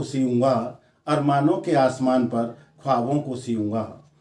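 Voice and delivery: measured, lightly lilting verse delivery; poem recitation. Acted. Poet reciting verse about life slipping by, lightly declaimed. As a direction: recite with lines set apart by pauses.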